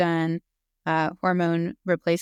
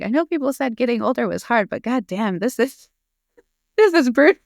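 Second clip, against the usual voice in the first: exasperated laugh; 6 semitones higher, 6 dB louder than usual. Retold or imitated. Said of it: "I was like".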